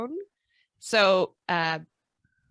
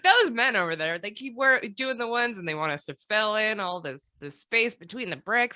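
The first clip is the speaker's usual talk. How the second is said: higher voice of a lady plotting in secret; pitched-up, conspiratorial mock woman; scheming lady inventor; 4 semitones higher than usual. Women at the pavilion plotting against the men, lightly voiced.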